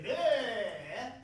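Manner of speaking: loud monster bleh; alien bleh. Acted. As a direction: gross out with a Martian bleh. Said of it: "that's just us being friendly".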